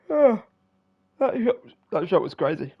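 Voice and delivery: loud, high burst at the shot; amazed gamer shout; excited. Real, not acted. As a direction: cry out in amazement. Reacting to a crazy shot.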